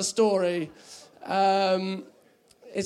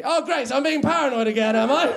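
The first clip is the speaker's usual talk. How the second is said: mock indignant; 5 semitones higher, 5 dB louder than usual. Mock indignant self-reply.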